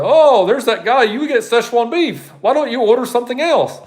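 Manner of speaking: high-pitched, hammed-up imitation of a Chinese accent; mock Chinese accent. Restaurant staff making fun of a regular customer, high mock Chinese accent. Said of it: "I don't know why I'm talking like that, but that's how they talk".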